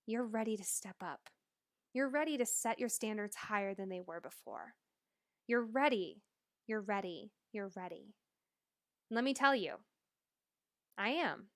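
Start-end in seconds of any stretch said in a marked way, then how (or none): 0.1-8.2 inner encouraging voice. Retold or imitated. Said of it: "It's coming from".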